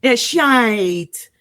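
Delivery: mock English accent, drawn-out swear word. Shown as a demonstration. Repeating the line for a laughing host, English accent. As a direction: stretch it out in playful English. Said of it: "do the bullshit line in the English accent".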